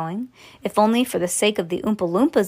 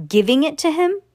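higher, incredulous question; astonished gasp; 7 semitones higher, 4 dB louder than usual. Acted. Grandpa Joe hears Charlie will get the factory, astonished gasp. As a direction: gasp it in disbelief, pitch up. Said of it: "gasped Grandpa Joe".

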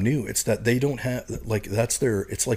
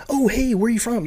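much higher, louder mock greeting; pitched-up retold hail; imitated eager greeting; 14 semitones higher, 5 dB louder than usual. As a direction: play an official suddenly all friendly. Imitating officials greeting him eagerly.

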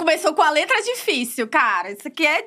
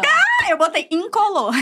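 higher voice, slow, dissolving into laughter; laughing confession; 6 semitones higher than usual. Real, not acted. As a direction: own up to a silly answer while cracking up. Cracks up revealing her answer. (confessando aos risos)

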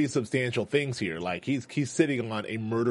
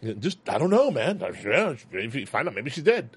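nervous bad liar. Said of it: "Norman's a really bad liar".

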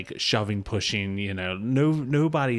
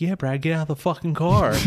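mock heckling yell; 6 semitones higher, 5 dB louder than usual. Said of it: "And I was like".

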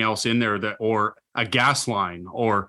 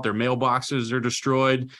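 normal talking voice

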